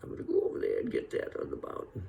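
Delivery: put-on fast, airy old-timer mumble; Walter Brennan forties voice. Comic showing Walter Brennan's forties voice, fast and airy. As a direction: rush it out like young Walter Brennan. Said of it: "he was like this".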